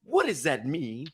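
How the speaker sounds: slow, drawn-out twang on the words; extra twang. Retold or imitated. Player retold with added twang, twangy. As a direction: imitate him leaning into a twang. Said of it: "some extra twang on his word".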